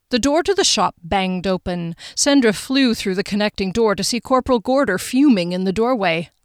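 measured, even audiobook reading; story narration. A narrator's reading. Narrator sets the scene in Sandra's kitchen, measured storytelling. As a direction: read the scene evenly and carefully. Reads the novel aloud.

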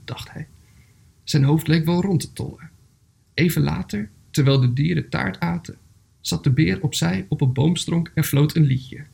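measured storybook reading with pauses; story narration. A narrator's reading. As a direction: read a gentle animal tale aloud, phrase by phrase. Reads a story aloud.

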